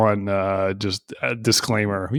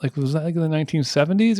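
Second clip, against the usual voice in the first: imitating ranger; 5 semitones higher than usual. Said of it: "she's like".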